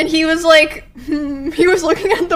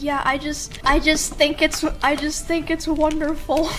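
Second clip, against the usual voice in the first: sweet grandma voice; 5 dB quieter than usual. Retold or imitated. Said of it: "this unhinged grandma stuff".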